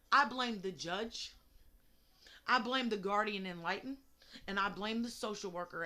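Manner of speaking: deliberate, accusing rant; firm blame. Real, not acted. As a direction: lay the blame out, one name at a time. Angry rant about Noah's case.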